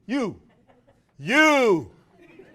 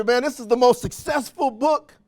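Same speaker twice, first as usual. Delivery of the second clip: higher, louder incredulous wondering; wondering aloud; 6 semitones higher, 4 dB louder than usual. Retold or imitated. Speaker recalls wondering why the book isn't taught, raised and amazed. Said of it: "I used to wonder".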